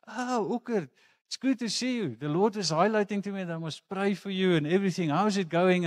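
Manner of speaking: a light mock auntie greeting; Aunt Elsa voice. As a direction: put on a high, kindly auntie voice.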